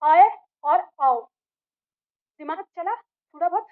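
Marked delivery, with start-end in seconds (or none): 0.0-1.2 slow, drawn-out आए and आओ; slow vowel demo. Shown as a demonstration. Teacher sounding out आए and आओ slowly for students. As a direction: stretch आए and आओ so the आ is heard. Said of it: "अब इसमें आ गया आपका".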